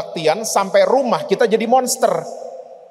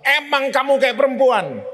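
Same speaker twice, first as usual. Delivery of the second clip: dismissive father; 5 semitones higher than usual. Retold or imitated. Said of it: "papanya bilang apa".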